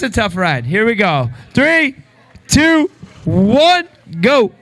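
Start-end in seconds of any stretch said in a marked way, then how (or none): 1.5-4.5 higher, punched countdown. Real, not acted. Host counts Ethan into the cold plunge, a higher countdown.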